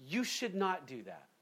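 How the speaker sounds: firm, plain, straight to the point; bold and direct. Shown as a demonstration. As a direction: say it straight, no hedging. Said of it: "we just need to be bold and say".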